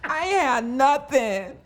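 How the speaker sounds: hammed-up weepy gratitude, drawing out the words; Brandis. Co-host imitating her friend recalling humble beginnings, mock weepy. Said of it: "I'm just crying again".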